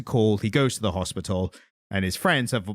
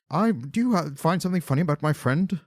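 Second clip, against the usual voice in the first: higher-pitched, mock-serious character voice; Monty Python parody; 4 semitones higher than usual. Quoting a comedy sketch about my friend Bigus Dickus, mock indignation. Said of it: "it's like the Monty Python joke".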